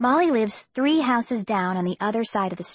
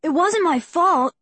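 high, loud protest; defensive cry; 8 semitones higher, 4 dB louder than usual. A narrator's reading. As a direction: blurt it out, defensive. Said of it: "Ethan cried".

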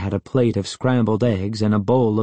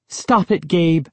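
snapping; 7 semitones higher than usual. A narrator's reading. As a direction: snap at him to stop. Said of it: "Sari snapped".

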